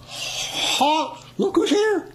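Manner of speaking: a jumpy private shouting at a noise in the bushes; sentry shout. Retold or imitated. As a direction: yell it out into the dark. Sentry challenging rustling bushes.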